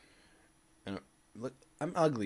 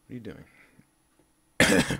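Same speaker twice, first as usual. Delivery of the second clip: very slow, louder, stretched out; drawn-out puzzled question; 2 semitones lower, 10 dB louder, much slower than usual. Retold or imitated. Puzzled at the kid circling him, slow drawn-out question. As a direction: drag every word in confusion.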